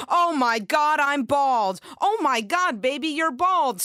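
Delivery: high, loud shocked gasp; sassy stylist horrified at the damage; mock-horrified shriek. Susie shocked at bald head.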